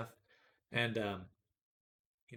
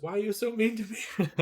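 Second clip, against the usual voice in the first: higher, louder whine from the computer; whiny PC voice; 10 semitones higher, 5 dB louder than usual. Pretend. PC complaining to its owner, mock whine. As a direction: whimper like a hurt PC. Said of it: "my P C goes".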